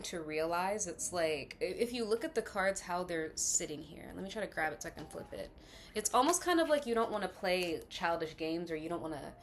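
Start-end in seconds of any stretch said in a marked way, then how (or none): 5.9-9.3 speaking around a dental retainer; words slightly thick from a retainer; talking with retainer. Real, not acted. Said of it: "excuse my retainer".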